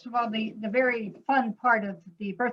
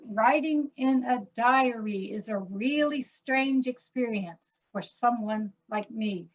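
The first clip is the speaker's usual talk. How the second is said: slow, pulsed reading, stress on "writing"; rhythmic reading. Shown as a demonstration. Composer reading the lyric in rhythm, stressing "writing". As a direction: speak it to a steady pulse, leaning on "writing". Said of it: "you can feel that there's a little bit of a pulse".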